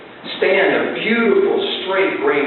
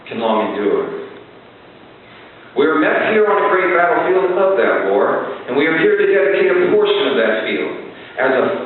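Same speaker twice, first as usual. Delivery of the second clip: formal recitation. Acted. Speaker reciting the Gettysburg Address to the audience, solemn oration. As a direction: speak it like Lincoln at the field.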